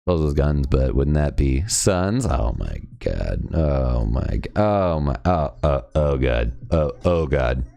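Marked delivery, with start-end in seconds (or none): 2.2-7.6 lightly voiced weary cartoon dad; Bob from Bob's Burgers. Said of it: "Trying to sound like Bob from Bob's Burgers".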